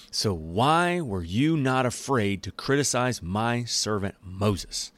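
booming God voice. Retold or imitated. God scolding Aaron and Miriam, slow and stern. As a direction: lay down the law slowly, word by word. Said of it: "in my ridiculous voice".

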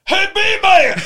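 high, loud hail across the room; calling out. Retold or imitated. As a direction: yell it like spotting a friend.

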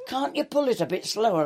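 plead, half exasperated, retelling it; comic high-pitched complaint; mock protest. Retold plea over spilling beer.

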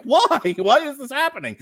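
high, laughing mock outrage; giggling at how absurd the scene is; laughing disbelief. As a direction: laugh through the baffled question. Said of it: "I'm like".

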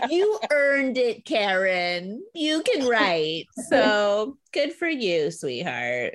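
slow, sugary mock praise; patronizing. Mocking Jessica praising Karen, slow and patronizing. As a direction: talk down to her slowly, like a pat on the head. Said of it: "kinda patronizing".

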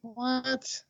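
loud, high "what"; incredulous. Real, not acted. Co-host hears he wants no animal at all, incredulous.

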